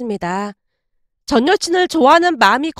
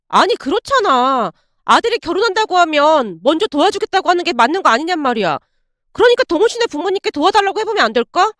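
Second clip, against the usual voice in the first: put-on higher, coaxing girlfriend voice; voiced girlfriend; 4 semitones higher than usual. Ex-girlfriend hinting that his parents should pay, higher coaxing voice. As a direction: ease into the ask in a lifted female voice.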